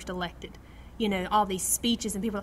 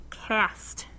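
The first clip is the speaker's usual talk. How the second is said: slow, unvoiced whisper; much slower than usual. The Lord reminding Dana, a slow whisper. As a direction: gently remind in a hush. Lord's voice retold gently.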